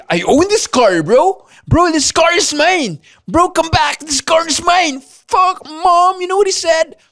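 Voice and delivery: high, loud bratty voice of an offended rich driver; shrill high bratty rich-kid rant; whiny rich kid. Retold or imitated. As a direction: play a spoiled brat crying to mom about his car. Mimics offended rich car owner.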